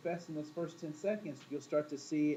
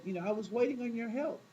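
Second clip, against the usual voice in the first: aggrieved complaint; 6 semitones higher than usual. Retold or imitated. Man complains to God.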